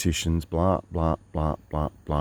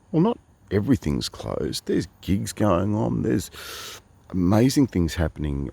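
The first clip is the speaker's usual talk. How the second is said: gentle Canberra mode; 5 semitones higher than usual. Retold or imitated. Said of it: "I went straight into Canberra mode, and I did it gently".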